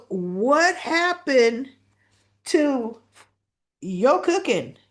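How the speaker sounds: mock appalled. Naomi scolding Haley over her baking, mock appalled. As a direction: draw out each piece in exaggerated dismay. Acted complaint about the cupcake.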